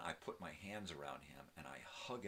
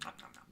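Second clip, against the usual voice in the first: eating noises; 5 semitones lower, faster than usual. Retold or imitated. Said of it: "And he's just".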